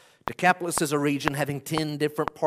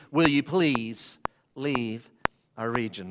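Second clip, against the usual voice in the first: begging request; 5 semitones lower, slower than usual. Retold or imitated. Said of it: "here's what they beg".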